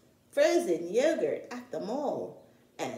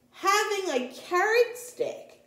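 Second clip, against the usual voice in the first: interrupting cub; 11 semitones higher, 3 dB louder than usual. Acted. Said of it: "interrupted Brother".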